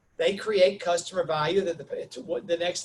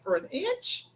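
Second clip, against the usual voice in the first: incredulous; 10 semitones higher, slower than usual. Retold or imitated. Disbelieving at the contractor's price.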